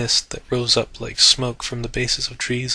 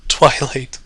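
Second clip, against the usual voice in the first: far away; 3 dB louder than usual. Acted. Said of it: "so very far away".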